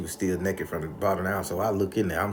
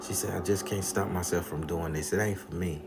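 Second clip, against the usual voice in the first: sad and quiet; 6 dB quieter than usual. Retold or imitated. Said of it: "And she like".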